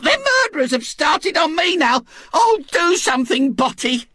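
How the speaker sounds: a fussy matron convinced she is being murdered; terrified Mrs Bott. Acted. Mrs Bott begs her husband to save her, wailing.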